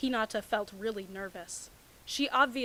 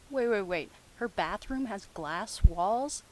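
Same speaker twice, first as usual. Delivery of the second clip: incredulous; 4 dB louder than usual. Real, not acted. Incredulous commentary.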